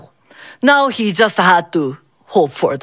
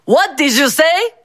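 booming; 6 semitones higher than usual. A narrator's reading. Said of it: "They heard the booming voice behind them".

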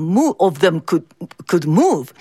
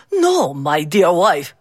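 sad father; 4 semitones lower than usual. Acted. Father comforts grieving wife.

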